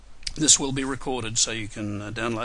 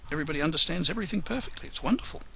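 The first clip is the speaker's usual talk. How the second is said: quick, higher, teasing sarcasm; mock delight; 5 semitones higher, much faster than usual. Presenter teasing silent webinar audience, mock delight. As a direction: rattle it off in ironic praise.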